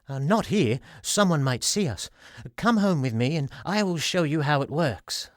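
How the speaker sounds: a hint of a shy salesman; timid little man. Flinty's voice.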